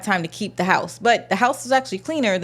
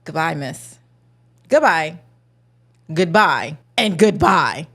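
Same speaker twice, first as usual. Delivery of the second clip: dismissive goodbye; 4 semitones lower than usual. Retold or imitated. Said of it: "How about".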